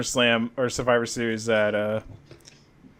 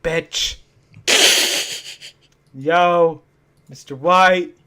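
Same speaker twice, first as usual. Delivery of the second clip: Jesse impression; 3 dB louder, much slower than usual. Imitating Jesse from Breaking Bad.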